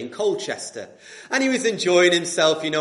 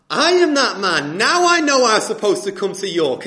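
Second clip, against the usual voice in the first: triumphant declaration; 5 semitones higher, 8 dB louder than usual. Acted. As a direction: announce it to the court. Sir Roger declares in court.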